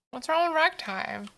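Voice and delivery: playfully affronted What's wrong with ragtime; indignant. Real, not acted. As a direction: defend ragtime, pretending offense. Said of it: "repeat asked higher".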